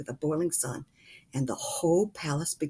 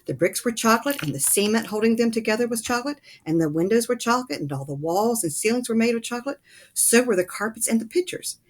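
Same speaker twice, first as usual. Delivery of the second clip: building wonder; 6 semitones higher, 4 dB louder than usual. A narrator's reading. Grandpa lists the chocolate wonders.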